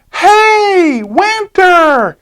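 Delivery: put-on high, bright call of a little girl; little girl waving her arms, calling to Winter. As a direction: call across the yard as the girl.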